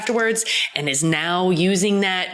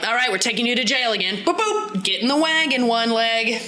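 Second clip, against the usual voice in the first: redcoat arresting; 4 semitones higher than usual. Retold or imitated. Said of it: "they're like".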